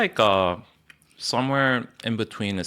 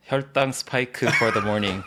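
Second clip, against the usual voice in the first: laughing; 6 semitones higher, 3 dB louder, much faster than usual. Real, not acted. Joking about sugar.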